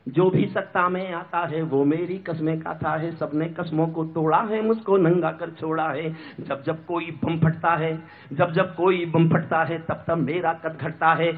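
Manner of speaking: restrained, rhythmic stage poetry; sombre verse. Acted. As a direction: recite it low and measured.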